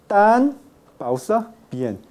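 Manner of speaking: "tan" then a long pause, then "bien", the n kept; exaggerated pause. Shown as a demonstration. Teacher showing that only with a pause is it "tan bien". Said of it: "¿quién hablará así?".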